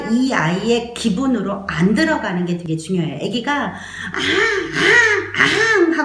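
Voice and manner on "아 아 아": baby cry imitation. Shown as a demonstration. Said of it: "하고 울을 때". (높고 큰 아기 울음 흉내)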